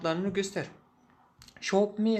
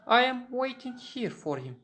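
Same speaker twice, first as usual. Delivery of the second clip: high, raised mock shout; retold shout; 8 semitones higher, 4 dB louder than usual. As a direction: insist loudly that you'll wait. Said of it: "yani ona bağırdım". (yüksek sesle, kararlı bir bağırış)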